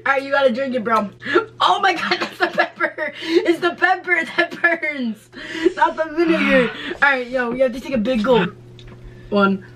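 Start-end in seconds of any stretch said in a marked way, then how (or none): 1.6-6.7 laughing. Real, not acted. Vinegar challenge, burning mouth.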